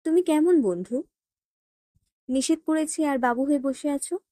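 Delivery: sharp reproach to a friend; angry. A narrator's reading. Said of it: "ফারা রেগে বলে". (রাগী গলায়)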